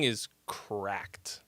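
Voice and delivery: unvoiced whispered aside; whispering. Real, not acted. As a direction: whisper it like a secret. Confiding aside about the song.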